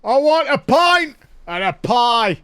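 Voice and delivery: loud, high, drawn-out lads' yell; rowdy Brits on tour. Acted. Brits on tour ordering a pint, rowdy mock shouting. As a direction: bellow like British lads abroad. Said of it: "Typical Brits on tour".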